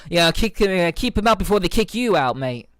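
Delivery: hammed-up Australian accent, laughing through it, slowed; lightly put-on Aussie bloke, half-laughing; bad Aussie accent. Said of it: "my terrible Aussie accent".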